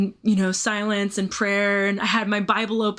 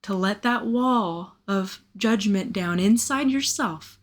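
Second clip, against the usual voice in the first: tender plea. Retold or imitated. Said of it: "deep place inside of me that goes".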